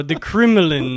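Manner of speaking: put-on Russian accent; mock Russian. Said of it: "Let me see if I can get into it".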